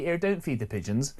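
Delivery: West Country station announcement; West Country accent. Acted. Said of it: "should be put into West Country".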